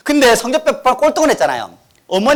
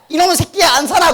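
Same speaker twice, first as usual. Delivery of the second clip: mock angry mother; 8 semitones higher than usual. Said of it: "엄마가".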